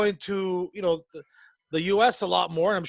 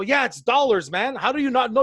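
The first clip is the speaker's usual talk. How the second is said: exasperated, a bit louder; irritated comeback to the clueless comic; retold angry reply; 5 semitones higher, 3 dB louder than usual. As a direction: push back at him, fed up. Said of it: "I go".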